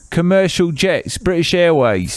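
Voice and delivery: put-on English accent.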